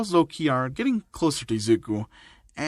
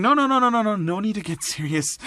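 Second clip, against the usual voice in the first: high, rapid-fire string of protests; panicked refusal; 6 semitones higher than usual. Acted. Student hurriedly talking his trainer out of a threat, panicked. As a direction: backpedal in an acted panic.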